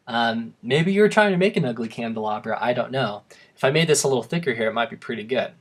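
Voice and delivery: ordinary talk, nothing marked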